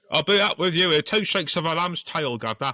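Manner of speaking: high, loud hammed-up Cockney; Cockney accent. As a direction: ham up a chirpy Cockney lad. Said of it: "Oh my God".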